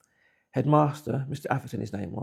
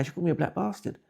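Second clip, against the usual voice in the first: retold crying; 6 semitones higher, faster than usual. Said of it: "This time I'm crying now".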